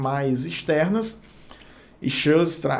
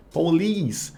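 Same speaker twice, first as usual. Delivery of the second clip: "Police" with the weight on the final "-lice"; stress on second syllable. Shown as a demonstration. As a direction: lean on the "is" sound in "Police". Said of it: "a sílaba tônica tá no is".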